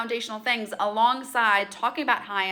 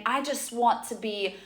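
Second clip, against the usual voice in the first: mock lofty self-talk. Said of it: "we don't talk like this".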